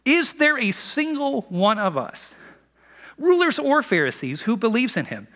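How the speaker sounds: a hammed-up sneer at the crowd; mocking. Pharisees mocking those who follow Jesus, slow and sneering. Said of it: "The Pharisees mocked".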